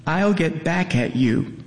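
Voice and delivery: sobbing. A narrator's reading. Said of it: "she says between sobs".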